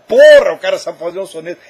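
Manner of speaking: loud exclamation, swear word punched hard; re-enacted cry of amazement; impressed outburst. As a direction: burst out in loud admiration. Quoting own amazed reaction to sonnet.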